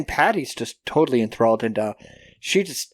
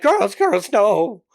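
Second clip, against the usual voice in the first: raised, higher scolding call; stern teacher warning; 6 semitones higher, 4 dB louder, much slower than usual. Retold or imitated. Teacher stopping the girls, sharp warning. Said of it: "She's like".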